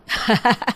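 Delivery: short, soft forced chuckle; awkward laugh. Acted. Mother-in-law facing a prettier rival bahu, forced laugh. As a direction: laugh briefly to cover discomfort.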